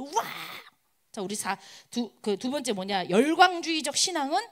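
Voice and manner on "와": drawn-out "wah" imitating a roaring crowd; mock crowd cheer. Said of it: "막 함성을 막 질러요". (길게 끄는 함성 흉내)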